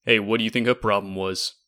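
put-on gruff Brooklyn accent, iron worker. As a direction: play it as a grumbling Brooklyn tough. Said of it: "in a Brooklyn accent says".

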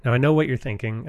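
big announcer delivery on "Now, I know what you're thinking". Shown as a demonstration. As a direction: say "know" with a rising announcer swell. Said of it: "I need to get out of my announcer voice".

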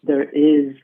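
retold realization, slowly with pauses; slow, awed declaration. Son telling his mom after the healing, slow and deliberate. Son's first words after the news.

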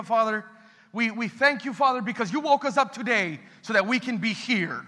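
earnest spoken prayer, steady and heartfelt. Acted. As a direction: pray over the congregation with feeling. Pastor prays aloud.

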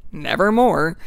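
a lightly voiced raven, loud and falling; hint of an ominous raven; raven's answer. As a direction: intone it like the stubborn bird. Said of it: "And the bird says".

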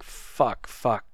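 hushed, unvoiced curse while sneaking; whispered swearing. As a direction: breathe the swear words out in a scared whisper. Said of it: "'cause I was like".

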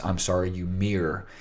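lightly put-on late-night radio calm; low FM DJ voice. Shown as a demonstration. Showing how to mirror an agent, low FM DJ voice. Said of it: "the little F M D J voice".

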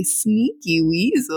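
lightly imitated toddler voice, slow; a hint of a little toddler saying it; toddler talk. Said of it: "says it in his little toddler voice".

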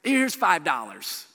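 mildly hammed-up token sympathy; offhand, half-hearted sympathy; casual pity. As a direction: toss out some shallow pity. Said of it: "when we have pity on somebody".

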